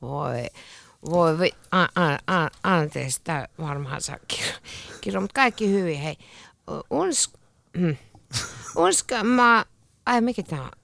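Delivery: put-on mildly slurred, giggly tipsy teenager; drunk teen. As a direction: stumble through the words like a drunk teen. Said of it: "lukisit humalaisena teininä".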